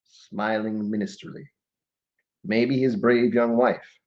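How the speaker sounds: slow, drawn-out verse recital; dramatic poem reading; poetry reading. Acted. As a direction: recite each phrase deliberately, with pauses. Reads a war poem aloud.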